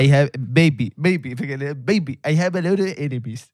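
put-on lightly accented smooth English; Tinder Swindler impression. Guest imitates the Tinder Swindler, accented English. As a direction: purr baby like the con man. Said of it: "me parezco al estafador de Tinder".

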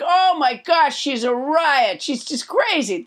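lightly acted, fond exclamation easing down; playful. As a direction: playfully marvel at a zany friend. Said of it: "in a very playful way".

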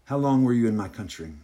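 lightly put-on French accent. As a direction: ask as a French hostess, accent homemade. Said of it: "this is my French accent".

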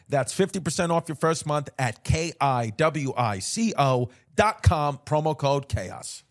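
measured sponsor read with spelled-out web address. Acted. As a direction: read out the promo details clearly. Reads a sponsor ad.

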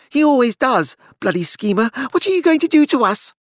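calm gone, fear breaking through; ragged, unsteady. A narrator's reading. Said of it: "His voice was ragged and unsteady".

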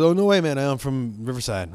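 lightly imitated stoner concertgoer; a touch of stoner-movie voice, falling off at the end; Cheech. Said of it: "he sounds just like Cheech".

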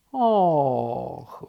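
long drawn-out turtle "oh"; long sigh. A narrator's reading. Turtle hears the news, sighing. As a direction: sigh slowly and heavily. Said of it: "westchnął żółw".

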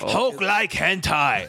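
slow Hulk toy catchphrase; pull string toy. Pretend. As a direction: drag it out like a talking toy. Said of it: "the catchphrases when you pull the string on his toy".

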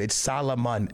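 "Salomon" as sah-lo-mon, the L sounded. Shown as a demonstration. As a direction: insist on "Salomon", every syllable voiced. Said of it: "you're actually stupid".

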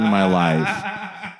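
laughing through the words; laughing punchline. Real, not acted. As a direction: giggles out the end.

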